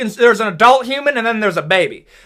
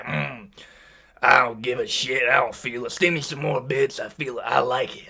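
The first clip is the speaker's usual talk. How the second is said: unbothered honey badger; 8 semitones lower, 9 dB quieter than usual. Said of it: "he's over here like".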